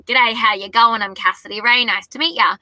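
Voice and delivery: casual Australian greeting; Australian accent. Retold or imitated. Singer walking onto a ship, Australian accent. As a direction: introduce yourself with an Australian accent. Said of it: "part of my language and my dialect".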